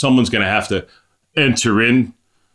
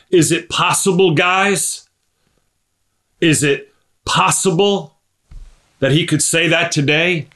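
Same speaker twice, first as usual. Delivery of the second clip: earnest appeal; 6 semitones higher than usual. Real, not acted. Pleading question to congregation.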